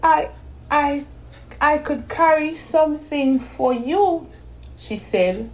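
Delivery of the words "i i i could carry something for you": put-on sleepy girl, stammering through a yawn; drowsy, halting offer. A narrator's reading. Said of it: "yawning again".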